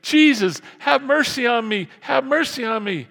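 high, loud repeated plea; insistent calling out. Retold or imitated. Bartimaeus keeps calling Jesus, high insistent shout. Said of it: "He keeps saying".

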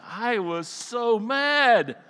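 slow, high, rising frustration; drawn-out retold fuming; exasperated anger. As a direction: stretch every word out in exasperation. Retelling anger at diagnosis.

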